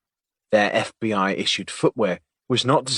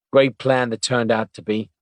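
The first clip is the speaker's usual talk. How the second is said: skeptically; 4 dB louder than usual. Acted. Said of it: "said Weiss skeptically".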